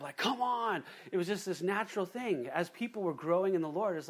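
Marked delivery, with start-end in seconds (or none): 0.2-0.8 whip-cracking urge. Retold or imitated. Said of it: "crack 'em with the whip".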